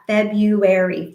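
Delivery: February in four slow even beats, FEB-RU-AR-Y; slow syllable-tapped word. Shown as a demonstration. Therapist counting beats in February, slow and rhythmic. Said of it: "Four beats".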